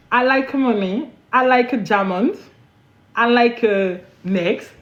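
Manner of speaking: slow, hammed-up broken English with a French accent. Shown as a demonstration. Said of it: "mon anglais, il sort". (anglais cassé à l'accent français)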